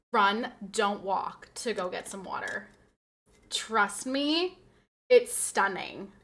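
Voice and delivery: lightly voiced Instagram influencer, slow and breathy-sold; a hint of a slow, selling influencer; influencer impersonation. Streamer mimics an Instagram influencer pushing water, slow hype. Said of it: "my best Instagram influencer impersonation".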